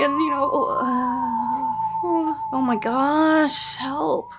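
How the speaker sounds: mock sobbing. Exasperated mock crying.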